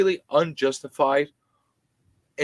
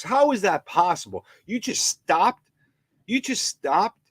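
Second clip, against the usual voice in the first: incredulous; 8 semitones higher than usual. Real, not acted. Incredulous questions to government.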